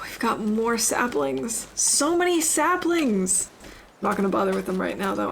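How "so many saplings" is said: excited. Real, not acted. Excited at finding more saplings.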